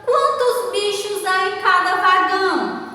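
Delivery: high, chant-like question, dropping at "vagão"; questioning intonation. Shown as a demonstration. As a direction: keep "Quantos bichos" lifted and sustained. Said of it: "Observe que eu estou fazendo uma pergunta".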